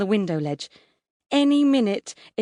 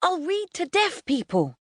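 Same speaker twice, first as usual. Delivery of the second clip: very high, desperate bargaining; wild pleading; 12 semitones higher than usual. A narrator's reading. Son bargaining with mum for his computer, desperate. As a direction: scrabble wildly for promises. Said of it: "he casts about wildly".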